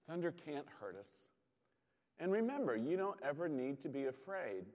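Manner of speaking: calm her down gently, like a dad at bedside; comforting father. Retold or imitated. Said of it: "he tries to comfort her and he says".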